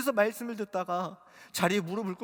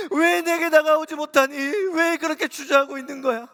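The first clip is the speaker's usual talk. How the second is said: voice of Jesus; 10 semitones higher, 11 dB louder than usual. Retold or imitated. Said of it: "주님이 이렇게 말씀하셨어요".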